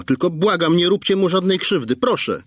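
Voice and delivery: high, pleading mother's voice; begging mother. Acted. Mother begging the kidnapper not to hurt her son, pleading. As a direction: plead desperately for the child.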